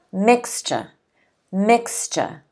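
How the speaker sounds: MIX-ture, said twice with a falling second beat; "mixture" with a strong first syllable, weak ending; first-syllable stress. Shown as a demonstration. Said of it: "the stress is on the".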